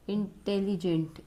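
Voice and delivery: इंटेलिजेंट said slowly, leaning on its opening vowel sound; drawn-out vowel demo. Shown as a demonstration. Teacher shows students the vowel at the start of इंटेलिजेंट, slow and clear. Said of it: "ई की sound आ रही है ना".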